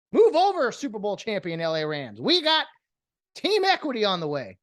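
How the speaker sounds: high, loud sarcastic cheer; hammed-up excitement; mock hype. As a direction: hype it up like a fake announcer. Sarcastic hype for equity team.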